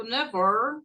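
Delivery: never said carefully with a short open ending; "never" pronounced neatly, the ending lightly rounded. Shown as a demonstration. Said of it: "alguns falam correto".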